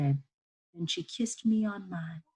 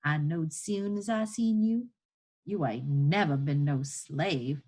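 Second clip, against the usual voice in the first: lightly voiced Southern woman, wondering; emphatic folksy woman taking someone's measure; marvelling enslaved woman; 4 dB louder than usual. Woman looking over a free twelve-year-old, marvelling.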